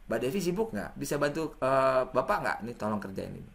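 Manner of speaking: soft, considerate ask; polite request. Shown as a demonstration. Lecturer asks student Devi for help, soft polite request. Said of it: "body language-nya tepat".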